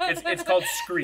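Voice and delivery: high, loud, through laughter; laughing. Real, not acted. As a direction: crack up while saying it. Joking as the table laughs.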